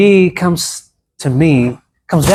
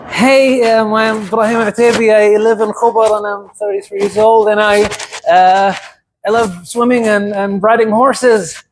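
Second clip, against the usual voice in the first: shallow casual intro; 4 semitones higher than usual. Shown as a demonstration. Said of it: "straightforward, shallow way".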